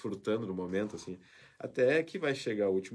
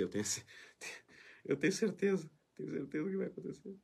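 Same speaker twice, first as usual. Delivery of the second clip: real chuckling through the words, trailing softer; laughing admission; 4 semitones higher, 6 dB quieter than usual. Real, not acted. Reporter sure he will cry on air, laughing admission. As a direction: laugh while admitting it, voice dropping away. Ri prevendo o próprio choro.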